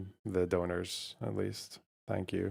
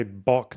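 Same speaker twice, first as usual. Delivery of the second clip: chicken bok. Shown as a demonstration. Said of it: "Chickens say".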